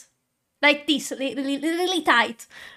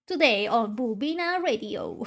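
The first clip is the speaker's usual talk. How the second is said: radio DJ voice; 3 semitones lower than usual. Pretend. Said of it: "I sound like a radio D J".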